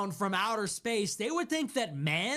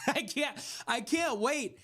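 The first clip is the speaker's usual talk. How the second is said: laughing sarcasm; 6 semitones higher than usual. Retold or imitated. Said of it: "what young man is like".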